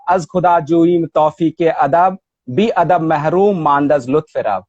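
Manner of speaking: measured Persian couplet recitation; verse recitation. Shown as a demonstration. Scholar quotes Rumi's original after the translation, measured verse recitation. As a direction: recite the couplet in even metre. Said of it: "این ترجمه مال مولانا هست".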